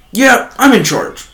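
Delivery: high, drawn-out mock boast; self-important coworker. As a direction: imitate a coworker who thinks he's boss. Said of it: "you can just see it in his face".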